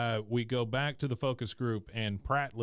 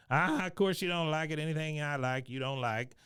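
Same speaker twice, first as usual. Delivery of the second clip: Cotton; 4 semitones higher than usual. Retold or imitated. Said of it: "Cotton pipes up again".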